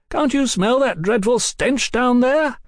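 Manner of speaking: high, carrying call. A narrator's reading. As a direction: call down to them loudly. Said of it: "He raised his voice".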